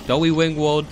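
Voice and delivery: loud cutesy lisp; w for r baby talk; uwu voice. Acted. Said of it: "uwu voice".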